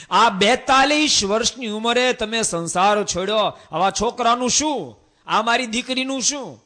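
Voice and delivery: high, loud anguished wail; distressed mother-in-law. Acted. Mother-in-law crying out at her son-in-law turned monk, high and loud. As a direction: plead with him, shocked and grieving.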